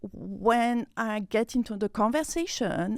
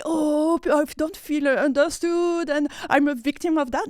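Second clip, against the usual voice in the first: higher, mock victim's lament; self-pitying complaint; 5 semitones higher than usual. Recalling her old self twenty years ago, mock self-pity. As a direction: play the misunderstood victim, voice lifted. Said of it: "what I was like".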